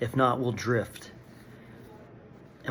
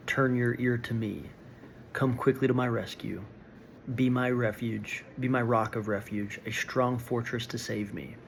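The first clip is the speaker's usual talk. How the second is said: scripture reading. Acted. Reads Psalm thirty-one aloud.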